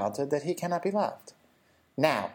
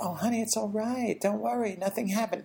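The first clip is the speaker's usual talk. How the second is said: put-on higher, sing-song grandma hushing a child; soothing grandmother; 8 semitones higher than usual. Grandmother hushing crying granddaughter, higher and sing-song. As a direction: brush off the upset brightly. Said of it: "my client said to her".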